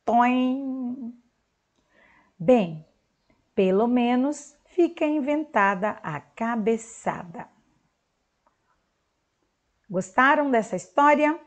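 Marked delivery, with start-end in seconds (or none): 0.0-7.5 slow, lively storytelling voice; story reading to children. Acted. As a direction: read the comic aloud like a story for kids. Reads comic story aloud.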